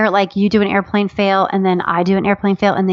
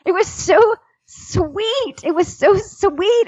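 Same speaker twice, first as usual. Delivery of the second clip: touched gushing; 11 semitones higher, slower than usual. Real, not acted. Touched by husband's earnest planning.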